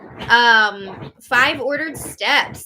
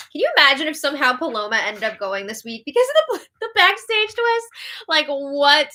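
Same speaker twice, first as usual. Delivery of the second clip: incredulous; 3 semitones higher, 4 dB louder than usual. Real, not acted. Host imagining an absurd twist, incredulous. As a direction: pitch it up in amused disbelief.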